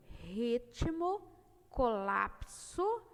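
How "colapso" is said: colapso said very slowly, syllable by syllable; syllable split demo. Shown as a demonstration.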